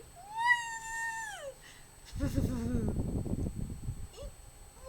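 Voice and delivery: high, drawn-out squeal; long high-pitched happy squeal; delighted squeal. Real, not acted. Gushing over a cute manga moment.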